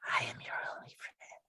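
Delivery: quick, hushed creepy repeat; fast creepy whisper. Acted. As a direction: rush the whisper out. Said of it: "too creepy for my taste".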